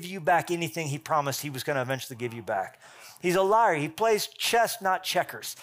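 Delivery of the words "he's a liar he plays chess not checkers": forceful preaching. Real, not acted. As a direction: hammer it home, slow. Preaching against the devil.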